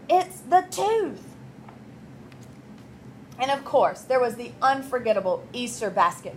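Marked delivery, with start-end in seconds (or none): 0.1-1.2 slow, high, chewing excuse; mouth full. Acted. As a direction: talk round a mouthful. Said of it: "chewed Stuart".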